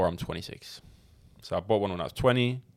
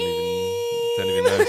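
laughing; 5 dB louder than usual. Real, not acted. Laughing at being asked for accents.

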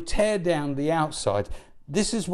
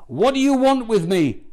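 loud, raised-pitch retold shout; shouted demon's cry; 4 semitones higher, 4 dB louder than usual. Preacher quoting the possessed man shouting at Jesus, raised shout. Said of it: "he shouted at the top of his voice".

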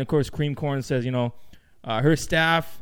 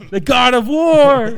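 proud answer; 6 semitones higher, 7 dB louder, slower than usual. Retold or imitated. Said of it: "Who was Mars?".

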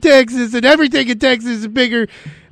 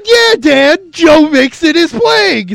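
put-on kid's voice; 5 semitones higher, 3 dB louder, much slower than usual. Child voiced in the story.

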